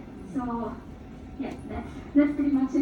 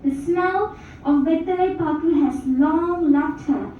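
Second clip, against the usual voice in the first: hushed raw poetry; 3 semitones higher than usual. Acted. Reads her poem aloud.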